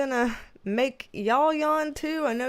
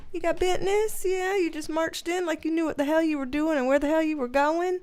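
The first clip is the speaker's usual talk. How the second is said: higher, sing-song pet voice; talking to the dog; 4 semitones higher, faster than usual. Real, not acted. Owner teasing her dog for strutting in, high pet-talk voice. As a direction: coo at the dog like he's a little boss.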